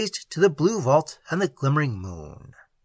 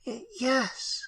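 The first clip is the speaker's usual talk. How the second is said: stammering; 10 semitones higher, 10 dB quieter than usual. A narrator's reading. Hesitant stammered reply.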